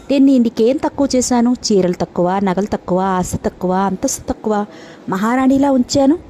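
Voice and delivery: he flares up at his wife's complaint; indignant husband. Acted. Husband defends himself in quarrel.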